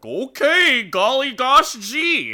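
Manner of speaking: put-on very high, loud gee-whiz kid voice; eager little kid. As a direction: squeal it like an overeager child errand boy. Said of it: "little kid's just like".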